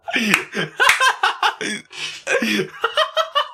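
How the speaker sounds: long high-pitched giggle; high squealing laugh. Real, not acted. Streamer cracking up at his chat name, squealing laugh. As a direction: let a squeaky laugh run out.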